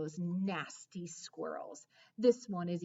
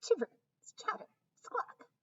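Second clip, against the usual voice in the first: squirrel screech; 12 semitones higher than usual. Acted. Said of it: "he screeches again".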